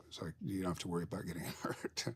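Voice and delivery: wry, quick whisper; whispered aside. Retold or imitated. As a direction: whisper it, laughing at the end. Ironic aside about trained dog.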